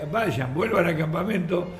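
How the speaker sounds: slow, drawn-out call without real volume; retold call down. Teller calls down from the mountain to those below, retold shout. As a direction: mimic calling down a slope, half-voiced. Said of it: "yo le gritaba".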